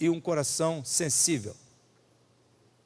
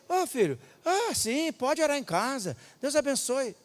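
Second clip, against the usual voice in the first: put-on higher, softer brushing off of a child; dismissive brush-off; 7 semitones higher, 4 dB quieter than usual. Pastor retells brushing off a boy who offers prayer. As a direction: wave the boy off kindly but quickly.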